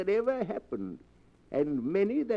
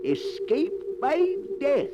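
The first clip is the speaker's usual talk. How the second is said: slow, higher dramatic unveiling of the title; 8 semitones higher, slower than usual. Acted. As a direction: draw the title out slowly and higher. Radio host unveils story title.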